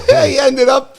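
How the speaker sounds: real laugh. Real, not acted. Laughing at dad's story.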